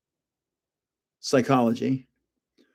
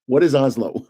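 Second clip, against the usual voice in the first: a lightly voiced impatient memory, a bit lower; playful impatience, low and eager; the fact in his head; 5 semitones lower than usual. The trapped fact begging to come out, lightly voiced. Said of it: "it's been sitting in there going".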